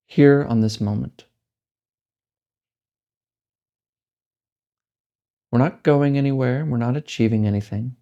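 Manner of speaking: slow, measured guiding with long pauses; spacious, deliberate meditation-teacher delivery; guided meditation. Real, not acted. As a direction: lead a meditation unhurriedly, leaving space between phrases.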